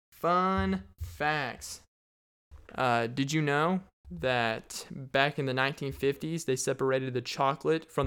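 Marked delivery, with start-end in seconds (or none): 0.1-1.8 fun facts called out higher like a show bumper; mock announcer call; segment title announce. Shown as a demonstration.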